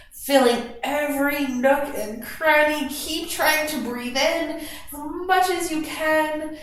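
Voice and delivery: calm guided meditation voice; guided relaxation. Acted. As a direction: ease the class into their breath. Cues a breathing exercise.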